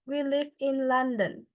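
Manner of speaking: "We live in London" with the pitch dropping at the end; falling intonation. Shown as a demonstration. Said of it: "Falling intonation, uh, as we can say".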